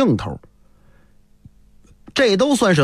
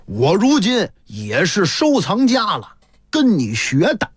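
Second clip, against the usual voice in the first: self-satisfied, proud. Acted. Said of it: "老张踌躇满志".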